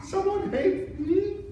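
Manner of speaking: king learning someone hates him, high slow disbelief; shocked disbelief. Acted. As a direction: stretch it out in hurt disbelief.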